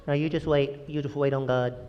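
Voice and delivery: mock well-meaning Christian. Well-meaning Christian telling someone to wait, hushed mock reassurance. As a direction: imitate hushed, patronizing comfort. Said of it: "Don't be one of those guys".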